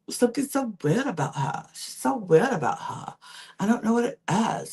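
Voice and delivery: put-on Lucinda's rant in an amateur British accent; bad British accent. Retelling Lucinda's rant to viewers in a bad British accent. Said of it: "That's my attempt of a British accent".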